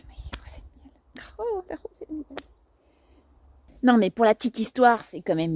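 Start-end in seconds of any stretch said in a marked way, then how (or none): 0.1-2.3 mock dreamy whisper. Mocking the pretty name.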